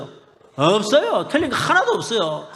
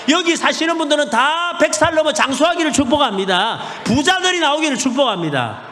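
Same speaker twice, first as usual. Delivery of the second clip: louder, higher, shouted blessings; preaching at full force; 3 semitones higher, 4 dB louder than usual. Real, not acted. Preacher blessing the church and town, shouted proclamation.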